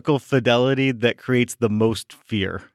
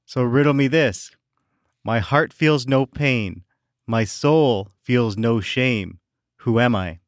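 Riddler voice; 2 semitones lower, slower than usual. Pretend. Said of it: "dressed in my Riddler costume".

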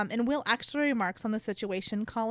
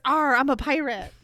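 pirate voice; 5 dB louder than usual. Retold or imitated. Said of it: "and holds it around and says".

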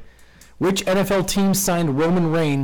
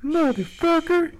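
exasperated curse; 14 semitones higher, slower than usual. Real, not acted. Host frustrated at wrong answers.

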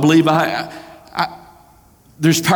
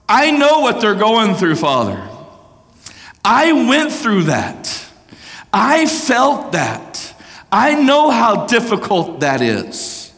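tender Jesus pleading; 7 semitones higher, slower than usual. Acted. Jesus pleading for us before the Father.

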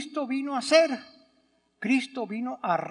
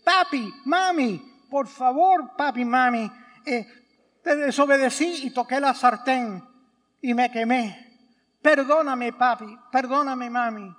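put-on pleading child; 4 dB louder than usual. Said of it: "y te dice".

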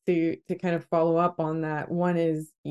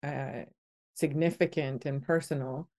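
emotional, softer, holding back tears; choked up; 4 dB quieter than usual. Real, not acted. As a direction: thank them through a tight throat. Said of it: "sorry, I'm getting a bit choked up".

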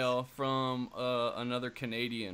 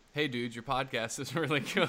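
put-on Canadian accent breaking into laughter; lightly exaggerated Canadian accent. Shown as a demonstration. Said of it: "I'll do it in a Canadian accent".

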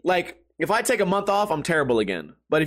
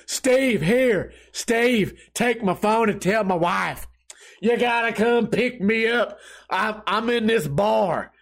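put-on slow, higher drunk country drawl; country accent; 4 semitones higher, slower than usual. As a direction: slur it like an old Southern drunk. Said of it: "Let me keep doing the voice".

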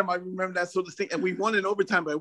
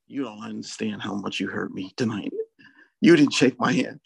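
feigned hurt; 8 semitones lower than usual. Retold or imitated. Coach pranking a colleague on the phone, feigned hurt. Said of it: "Let's make him feel like he really hurt".

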